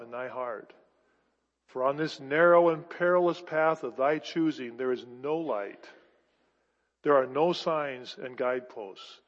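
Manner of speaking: put-on grave, measured reading of an old rabbi's warning; solemn reading. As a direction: read it low and deliberate, with weighty pauses. Reads aloud a novel paragraph.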